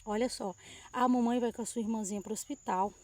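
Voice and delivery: put-on softly soothing a frightened child; calm her down gently, voice dropped; gentle reassurance. Mother quietly reassuring her crying daughter, softly tender.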